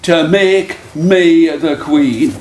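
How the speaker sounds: slow, deliberate storybook demand; lightly voiced demand, each word stretched; demanding would-be queen. Woman wants the fish king's favour, slow, deliberate demand.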